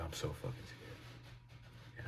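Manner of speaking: slow, barely-there frightened whisper; scared whisper. Retold or imitated. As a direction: drag it out slowly in a tiny voiceless hush. Zoned-out friend repeats, terrified.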